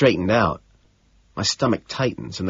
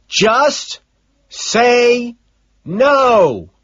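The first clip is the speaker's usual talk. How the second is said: higher, louder scream; 13 semitones higher, 5 dB louder, much slower than usual. Acted. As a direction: scream down the phone at her. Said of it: "I scream".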